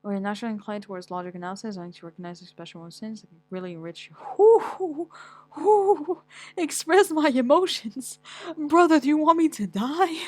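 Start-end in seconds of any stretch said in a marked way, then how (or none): 4.1-10.2 high, loud mock hyperventilating; mock panic. Real, not acted. Vlogger reading his personality test, panicking at emotions, loudly. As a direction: freak out at the idea of feelings. Reacting to advice to express emotions.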